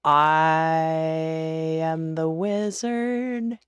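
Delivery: booming slow grand wizard. Pretend. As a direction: proclaim it like a mighty wizard. Streamer booms wizard voice granting wish.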